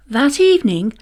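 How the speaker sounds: plain reading voice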